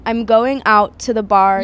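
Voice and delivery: slow, deliberate American accent attempt. Shown as a demonstration. Asking to be corrected, careful American accent. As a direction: uncertain American accent, slightly off. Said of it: "can you do your American accent".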